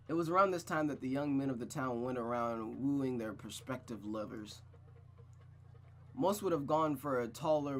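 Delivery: measured, unhurried storybook read; story narration. Acted. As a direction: narrate the scene with clear, deliberate phrasing. Reads the story aloud.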